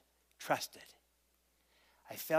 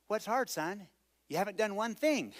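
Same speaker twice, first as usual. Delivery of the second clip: raised, amused father's retort; 6 semitones higher than usual. Retold or imitated. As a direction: tease the boy who did nothing.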